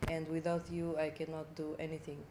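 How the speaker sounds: low, soft-spoken Russian accent; quiet thank-you in a Russian accent. Shown as a demonstration. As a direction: speak English with a Russian accent. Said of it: "That's the Russian one".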